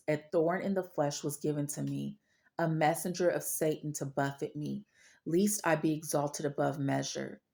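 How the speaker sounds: scripture reading. Acted. Reads Bible passage aloud.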